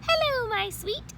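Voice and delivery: high, loving coo to a pumpkin; sweet girl voice. Acted. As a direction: coo it like a doting little frog. Frogalina to pumpkin.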